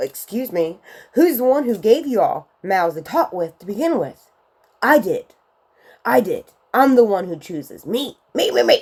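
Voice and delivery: mock irritated, mildly cross, a little angry. Retelling God's reply to Moses, imitating Yahweh annoyed. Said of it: "Yahweh a little angry".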